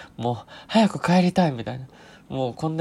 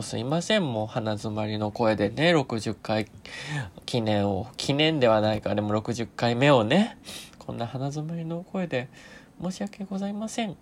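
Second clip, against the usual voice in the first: stuffy nasal voice from allergies; blocked nose voice. Real, not acted. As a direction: talk with a congested nose.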